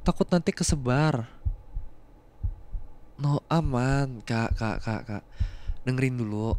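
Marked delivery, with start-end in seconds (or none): 3.2-6.5 slow, soft and low reassurance; soothing. Acted. Reassuring the frightened partner, slow and soft. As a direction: coax her back to calm. Calming her panic.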